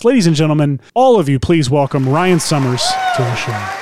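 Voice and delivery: measured emcee introduction, slowing at the final welcome; announcer introduction. Acted. Host presenting the guest writer to listeners, announcer style. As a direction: build up the guest like a show host.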